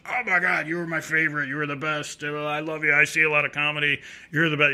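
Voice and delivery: gushing, run-on praise from a tipsy fan; lightly voiced drunk gushing over a comic; effusive drunk fan. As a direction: imitate an over-complimentary drunk. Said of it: "He's being really effusively".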